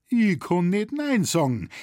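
high, loud, amused reply; lightly acted laughing retort; laughing outright. A narrator's reading. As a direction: answer as if bursting out laughing. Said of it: "entgegnete der Koppengirgel gerade hinauslachend".

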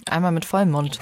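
talking around a mouthful; words muffled by a bite of pretzel; mouth full. Real, not acted. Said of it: "noch eine Pfefferkäsebreze gerade im Mund". (mit vollem Mund)

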